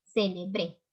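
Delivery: ce-le-BRÉ, drawn out on the final syllable; "Célebre" sounded out evenly, ending on a long stressed "bre"; stress on last syllable of Célebre. Shown as a demonstration. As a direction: say Célebre as se-le-BRÉÉ. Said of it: "va a cambiar".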